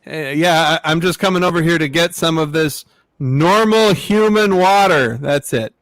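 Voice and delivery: alien faking casual office chat; barely voiced alien trying to blend in. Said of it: "This is my impression of a".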